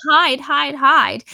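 loud, urgent retold order; mock panic. Girl tells Trevor to hide in the bathroom, mock panicked. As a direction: imitate a freaked-out girl hissing orders loudly. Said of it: "she starts to freak out".

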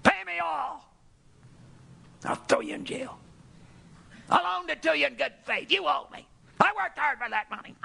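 high, harsh demands from a creditor; angry servant pressing his debtor. Acted. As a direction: seize him and demand the money. Servant grabs debtor by throat.

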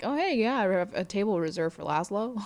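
saunter in as if nothing happened; nonchalant. Retold or imitated. Laszlo breezing in to claim his table, nonchalant. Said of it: "Laszlo walks in like nothing".

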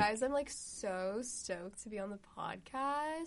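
light, mellow celebrity drawl; a hint of Anna Kendrick; Anna Kendrick impression. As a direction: coo it like a star guest. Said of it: "You sound just like her".

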